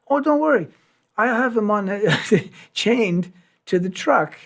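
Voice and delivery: high, lightly put-on Italian reassurance; breezy mock Italian, slowing at the end; reassuring Italian guy. Animal owner calming the singer about the lion, high mock Italian.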